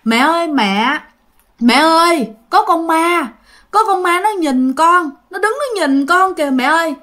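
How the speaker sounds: mildly acted terrified kid calling for mom; scared crying child. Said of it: "nó khóc, nó nói rằng".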